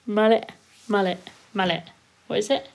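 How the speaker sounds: usual speaking voice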